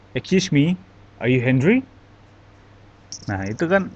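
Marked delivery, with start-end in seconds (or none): 0.1-1.8 mildly irritated demo question; mock angry. Shown as a demonstration. Teacher demonstrates angry intonation to students, mildly angry. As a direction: ask it with a touch of mock anger. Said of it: "Kalau intonasinya seperti marah-marah, contohnya".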